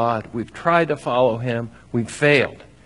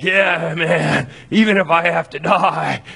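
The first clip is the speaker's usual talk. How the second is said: a touch of laid-back mock swagger; casual bravado; 3 semitones higher than usual. Peter boasting to Jesus, lightly mocked casual bravado. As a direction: brush it off like a buddy. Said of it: "Peter's like".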